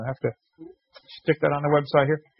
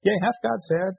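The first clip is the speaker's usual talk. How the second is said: imitating Satan; 5 semitones higher than usual. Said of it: "what Satan did to Eve".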